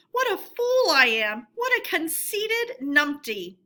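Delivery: high, loud wail at himself; self-scolding. A narrator's reading. Toad cursing his own conceit while fleeing, loud. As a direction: berate yourself in panic.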